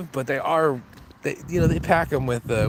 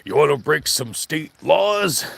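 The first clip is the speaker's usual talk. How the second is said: imitating the owner; slower than usual. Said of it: "the owner would be like".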